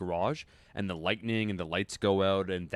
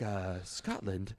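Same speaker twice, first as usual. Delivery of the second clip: mock French accent; 2 semitones lower, 7 dB quieter, much slower than usual. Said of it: "speaking with his, like, Belgian, like, French ac- accent".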